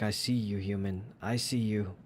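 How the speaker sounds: a hint of a low, creepy cat voice; lurking cat voice. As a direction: murmur it like a cat spying on you. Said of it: "He's like".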